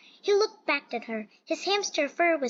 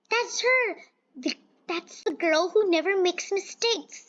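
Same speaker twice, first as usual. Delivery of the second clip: high eager gossip; excited whisper-shout; 5 semitones higher than usual. Acted. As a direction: point her out, thrilled. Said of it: "said a woman".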